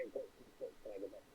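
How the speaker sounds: like talking through a tube down a hallway; bad mic. Real, not acted. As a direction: voice cutting in and out. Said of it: "your voice is coming in and out like you're talking through a".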